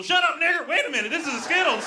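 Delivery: sudden high mock yell; mildly hammed-up online rage; mock racist outburst. Imitating an internet commenter turning racist for no reason, mock outburst. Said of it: "internet just get racist for no reason".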